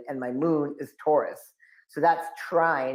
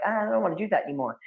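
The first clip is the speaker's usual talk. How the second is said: put-on kid refusing; 6 semitones higher, faster than usual. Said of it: "I'm like".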